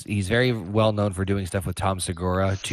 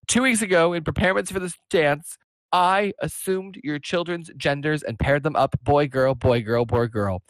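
mock-tearful confession; 6 semitones higher than usual. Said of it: "she's, like, crying".

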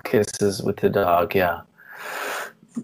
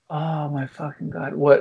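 exasperated mom; 3 semitones higher, 4 dB quieter than usual. Retold or imitated. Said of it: "she'd be like".

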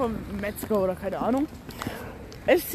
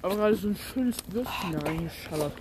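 chewing while talking; 2 semitones lower, 4 dB quieter than usual. Real, not acted. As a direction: mouth full, quiet. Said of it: "man spricht nie mit vollem Mund".

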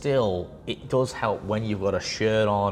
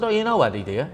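sarcastic; 6 semitones higher, 5 dB louder, faster than usual. Retold or imitated. Mocking a boastful young lifter.

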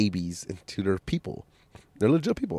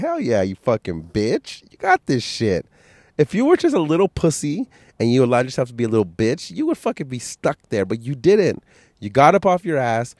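pumping himself up in the mirror, rising; mirror pep talk; 5 semitones higher than usual. Retold or imitated. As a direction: hype talk to his own reflection. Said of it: "I start smiling 'cause I'm like".

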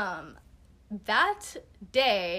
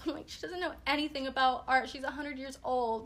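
petty insulting; 4 semitones higher than usual. Retold or imitated. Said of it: "But I'd be like".

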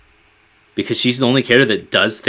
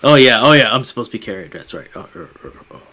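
mock injured Wookiee; faster than usual. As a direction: act out a Wookiee remembering to look helpless. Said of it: "the Wookiee walks as if he didn't need any help".

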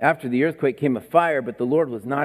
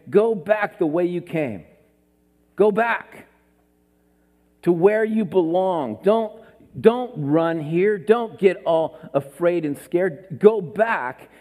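louder, stern commanding voice; firm divine command; 3 semitones higher, 4 dB louder, slower than usual. Acted. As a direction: order him back with authority. God commands Elijah firmly.

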